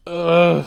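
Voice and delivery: real mid-sentence burp. Real, not acted. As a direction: burps between words. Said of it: "fucking burping and shit".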